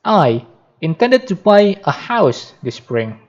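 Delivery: "I" drawn out and set apart; emphasize "I" at the start, slowly; stress on I. Shown as a demonstration. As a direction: lean on the opening "I", stretching it. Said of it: "to supplement the emphatic words".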